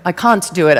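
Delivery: CAN'T with a broad British "ah"; British accent. Pretend. Speaker jokily repeating an audience member's self-doubt, in a British accent. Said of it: "I gotta put on my British accent".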